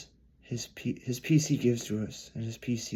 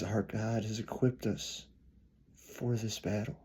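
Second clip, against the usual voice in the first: hushed whisper; 4 dB quieter than usual. Real, not acted. Preacher's intimate closing appeal.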